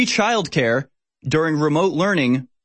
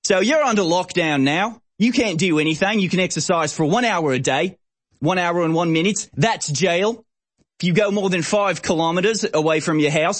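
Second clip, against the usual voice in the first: higher mock Australian cop voice; mock Australian police; 4 semitones higher than usual. Host parodying Victoria Police, silly Australian accent. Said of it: "in a silly accent 'cause it's from the Victoria Police".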